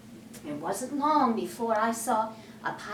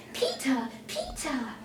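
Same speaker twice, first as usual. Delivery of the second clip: 1 pleading; 3 semitones higher than usual. Acted.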